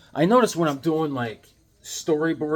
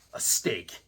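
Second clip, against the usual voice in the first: low breathless whispered punchline; whispered aside; spooky whisper; 7 semitones lower, 6 dB quieter than usual. Pretend. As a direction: hush it like a ghost story. Punchline after the story.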